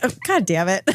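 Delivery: amused mock exasperation; chuckling oh God damn it; laughing through it. Real, not acted. Laughing at the grandma story's punchline.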